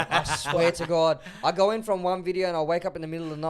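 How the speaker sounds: loud, laughing and fast. Real, not acted. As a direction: laugh as you tell it. Laughing while telling.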